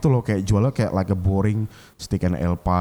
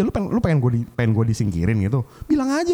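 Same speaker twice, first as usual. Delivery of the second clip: heated challenge. Retold or imitated. Daring the sous chef to admit it, heated. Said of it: "gue panas lah".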